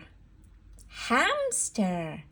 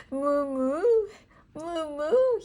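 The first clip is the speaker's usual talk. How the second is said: put-on rising, playful moo for little kids; cow mooing; 5 semitones higher than usual. Shown as a demonstration. Teacher showing toddlers what a cow says, mooing. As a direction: imitate a cow's moo. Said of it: "a cow says".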